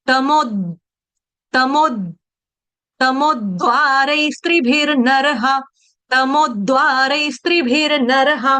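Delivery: the द in तमोद्वारै barely touched; a light touch on द in तमोद. Shown as a demonstration. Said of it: "touch देना है।".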